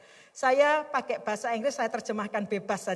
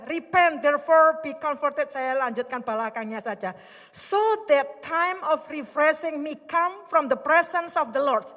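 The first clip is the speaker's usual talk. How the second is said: loud, slow proclaimed verse; preaching at full force; 3 semitones higher, 4 dB louder than usual. Acted. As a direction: call the church to repent. (membacakan ayat dengan lantang)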